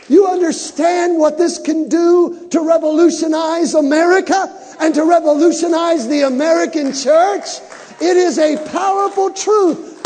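preaching shout. Real, not acted. Preacher building to a climax.

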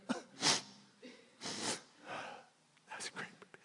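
unvoiced, very soft whisper; whisper through tears. Real, not acted. Pastor remembering the film, whispering through tears. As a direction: barely breathe it out, moved. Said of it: "I'm tearing up".

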